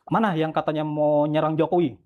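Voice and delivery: mild mock yell, drawn out; retold shout. Officer challenging detainees, retold as a mild slow shout. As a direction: slowly call out the question, only half-shouting. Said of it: "dia teriak".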